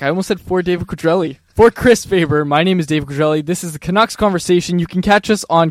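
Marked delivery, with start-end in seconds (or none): 1.5-5.7 hype voice. Shown as a demonstration. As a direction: pump it up like a radio host. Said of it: "Get your hype voice going and close it out then".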